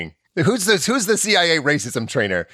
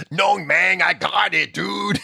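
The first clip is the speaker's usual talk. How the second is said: mock Mexican accent, lightly done; a hint of a hammy Mexican accent; fake Mexican accent; 7 semitones higher, slower than usual. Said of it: "It's like".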